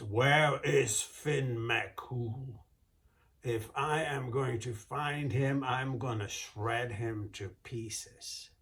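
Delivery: slow, loud, booming giant threat; menacing giant. Acted. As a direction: growl it out like a huge brute.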